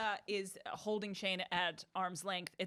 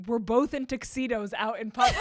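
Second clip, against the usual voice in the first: mock outrage; 3 semitones higher, 9 dB louder than usual. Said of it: "he goes".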